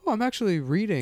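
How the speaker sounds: high, quick mocking voice; mock proud non-reader. Teasing a friend who reads five pages, mock proud non-reader. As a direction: imitate a smug new reader. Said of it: "somebody that doesn't read picks up a book".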